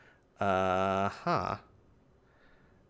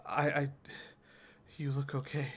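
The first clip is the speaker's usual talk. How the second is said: higher, stammering worry; shaken concern; 5 semitones higher than usual. Acted. Companion who saw her attacked, stammering and shaken. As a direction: stumble over it, pitched up with worry.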